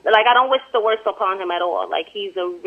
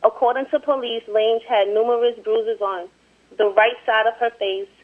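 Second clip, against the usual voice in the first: measured, even article reading; amateur newsreader delivery; news report read aloud; 4 dB louder than usual. Real, not acted.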